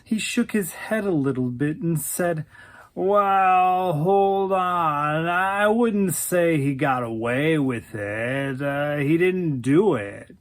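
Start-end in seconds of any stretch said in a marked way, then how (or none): 2.9-8.6 drawn-out, hedging objection; placating. Acted. Man placates his upset girlfriend. 8.6-10.4 hedging statement, falling at the end; matter-of-fact denial. Acted. Man's statement, then her disbelieving echo.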